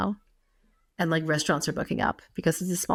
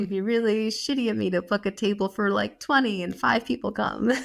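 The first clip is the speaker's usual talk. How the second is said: quoting herself in a higher voice, a little exasperated; higher, pleading tone to relatives; retelling her own plea to relatives, higher voice; quoted self, raised pitch; 5 semitones higher than usual. Retold or imitated.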